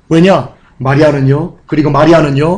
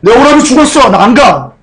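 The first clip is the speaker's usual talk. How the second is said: mildly acted sulky refusal; hurt, resentful; 3 semitones higher than usual. Mary refusing to go to the Lord after her brother's death, hurt. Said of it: "서운함이 가득한 거예요".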